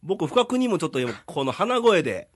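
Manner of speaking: stuffy nose from a cold; nasal voice. Real, not acted. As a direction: talk through a blocked nose.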